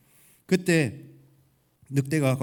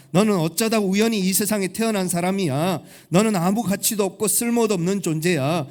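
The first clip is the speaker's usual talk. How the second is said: accusing devil; 4 semitones higher, 5 dB louder than usual. Acted. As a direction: pile on accusations, rising relentlessly in pitch and force. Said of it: "이렇게 마귀는 우리에게 속삭인다는 거예요". (낮게 시작해 점점 높고 크게 몰아붙이는 비난)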